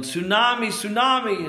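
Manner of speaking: retold high warning cry; imitated yelling. Preacher imitating a man warning of the wave, yelling. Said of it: "this man started yelling".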